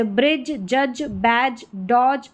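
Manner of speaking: ब्रिज, जज, बैज, डॉज ending on j; DGE as j. Shown as a demonstration. Teacher modelling DGE words, j demonstration. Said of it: "इसको ज करके pronounce करेंगे".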